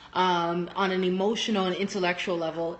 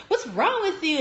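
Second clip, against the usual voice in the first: higher-pitched mock questioning; imitated baffled kids; 8 semitones higher than usual. Kids questioning their rowdy teacher on the court, lightly mimicked. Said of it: "And my kids are like".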